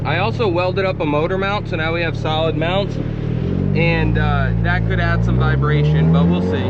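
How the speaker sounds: talking over road and wind noise; car windows down. Real, not acted. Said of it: "Sorry for any wind noise".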